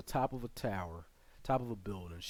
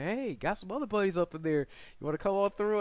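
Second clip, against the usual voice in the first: soldier voice; 9 semitones higher, 5 dB louder than usual. Retold or imitated. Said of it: "They're like".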